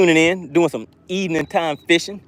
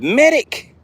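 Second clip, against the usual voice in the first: mock panic; 12 semitones higher, 3 dB louder than usual. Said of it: "Cayman said".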